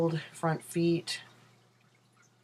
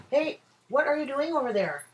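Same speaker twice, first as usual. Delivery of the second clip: much higher sing-song to the dog; 10 semitones higher than usual. Real, not acted. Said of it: "I sound way more girly when I talk to my dog".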